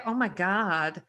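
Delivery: lightly imitated American gushing; amazed American fans. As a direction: mildly mimic an astonished American admirer. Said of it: "And they go".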